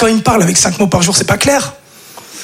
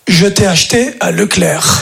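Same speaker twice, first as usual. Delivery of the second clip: mother's answer; 4 semitones lower, slower than usual. Retold or imitated. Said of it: "elle m'a répondu".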